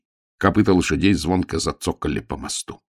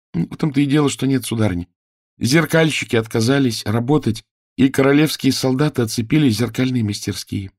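put-on higher child's voice, earnest; anxious child page; 8 semitones higher than usual. A narrator's reading. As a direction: correct the lady politely.

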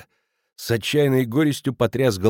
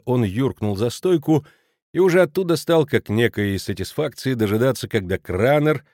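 plain reading voice

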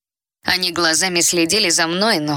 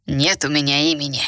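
hissing feral vampire; 3 semitones lower than usual. A narrator's reading. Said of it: "прошипел вампир".

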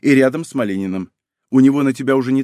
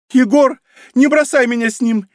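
much higher, louder, panicked cry; hysterical cry; 11 semitones higher, 5 dB louder than usual. A narrator's reading. Wife begging her leaving husband not to abandon her, hysterical. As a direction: scream after him in panic. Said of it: "истерически крикнула жена".

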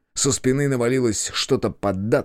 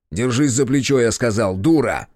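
louder, harsh command; harsh order; 4 dB louder than usual. Acted. Yurkan orders panicked Hana, harsh and loud. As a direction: snap her out of panic.

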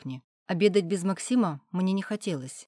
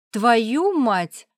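higher, much louder swear; loud curse; 5 semitones higher, 9 dB louder than usual. Acted. Klavdia grasps the secret and curses loudly. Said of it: "громко выругалась Клавдия".

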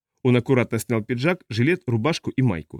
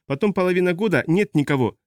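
pitched-up complaint with a touch of amusement; teasing, amused; 6 semitones higher than usual. A narrator's reading. Old pilot chides absent captain, lightly amused. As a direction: tease her for vanishing, voice lifted. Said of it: "засмеялся Ломе".

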